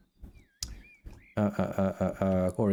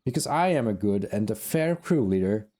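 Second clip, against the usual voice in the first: raised voice of a haughty crew boss. Acted. Voicing sister NPC.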